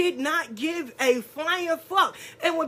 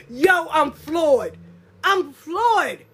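floored amazement; 3 semitones higher, 4 dB louder, much slower than usual. Retold or imitated. Retells being floored with laughter.

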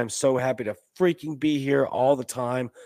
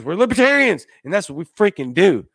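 proud rallying cry; 7 semitones higher, 7 dB louder than usual. Real, not acted.

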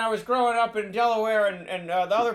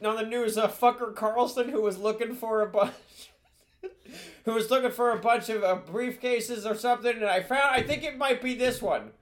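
put-on rambling old politician voice; folksy meandering old statesman; Joe impression; 4 semitones higher than usual. Same rambling impression continues.

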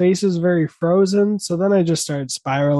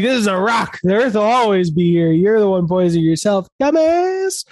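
gloating earth; 5 semitones higher than usual. Pretend.

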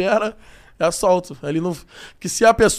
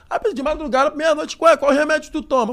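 mock friend asking; 7 semitones higher than usual. Retelling friend's question.

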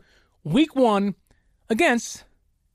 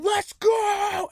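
couch cheer; 9 semitones higher than usual. Pretend. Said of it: "cheering on my couch saying".

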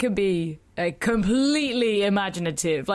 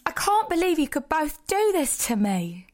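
betrayed husband; 5 semitones higher than usual. Acted. Reed's angry line read aloud.

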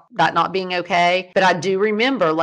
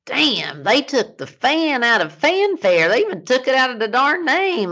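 high, grumbling dad voice; imitating dad; 8 semitones higher than usual. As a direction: mimic her dad griping. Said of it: "he goes".

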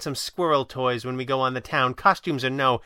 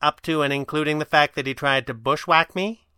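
higher, louder, sweetly pointed question; 5 semitones higher, 5 dB louder than usual. A narrator's reading. Kit asks the Red Panda about the attempted bushwhack, sweetly. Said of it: "Kit asked sweetly".

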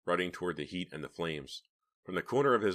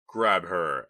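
urgent shout; 7 dB louder than usual. A narrator's reading. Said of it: "Alex shouted".

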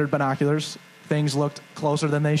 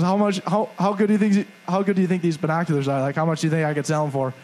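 imitating the binocular guy; 2 semitones higher, faster than usual. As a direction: mimic an eager hustler pushing his question. Guy with binoculars pesters teller.

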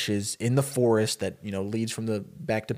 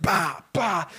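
two voiced blows, pitched up; imitated punch sounds; 6 semitones higher than usual. Storyteller voicing a beating, punchy sound effects. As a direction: act out punches as short noises.

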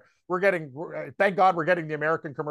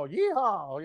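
drawn-out mock yeehaw, pitched up; country singer; 3 semitones higher than usual. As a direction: playfully imitate a country singer holding a note. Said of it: "Twang Machine over here will go a little bit longer".

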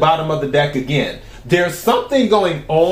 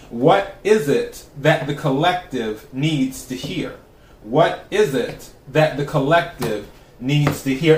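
invocation; slower than usual. Acted. Repeats invocation while shuffling.

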